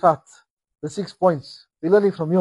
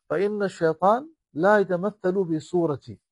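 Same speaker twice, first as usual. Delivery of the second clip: quick Arabic recitation; much faster than usual. Acted. Quoting hadith in Arabic.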